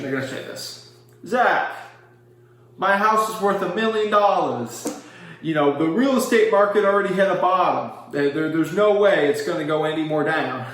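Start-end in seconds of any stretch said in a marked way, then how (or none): 1.3-10.7 a mildly raised, indignant stubborn homeowner; seller impression. Mocking a stubborn seller who insists the house holds value, slightly higher voice. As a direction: play the proud seller who won't believe the market. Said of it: "my typical seller impression voice".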